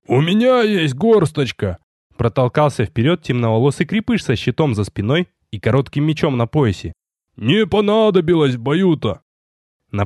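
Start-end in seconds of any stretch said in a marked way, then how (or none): 0.1-1.8 higher, slower hearty call; proudly offering help; eager stocky soldier. Acted. Крепыш вызывается помочь. 7.4-9.2 higher, cheerful folksy remark; boasting a little; hearty soldier. Acted. Крепыш о неиспользованной траве.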